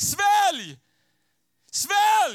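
very high, very loud, shrill, desperate scream. Retelling what the speaker screamed at someone, retelling a scream. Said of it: "Så bara skrek jag".

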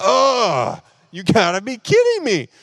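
very high, swooping, fed-up frustrated outburst. Retelling being told there's no cash back, retelling frustrated reaction. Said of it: "So I'm getting frustrated".

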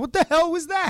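very high, scared-sounding mock tone. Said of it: "you got him so scared".

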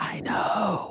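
soft, breathy little whisper. Imitating the other speaker's remark: imitating a little whisper. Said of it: "with your little whispers".

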